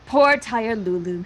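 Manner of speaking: slow teasing sympathy; mock pity. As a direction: coo over her like a tired child. Teasing tired sister.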